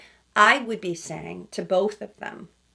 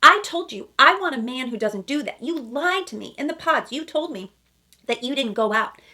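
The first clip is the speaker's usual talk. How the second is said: higher, louder accusing rant; higher, louder mock accusation; mocking Chelsea; 5 semitones higher, 5 dB louder than usual. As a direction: mimic her scolding him, hammed-up. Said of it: "that's what Chelsea's doing".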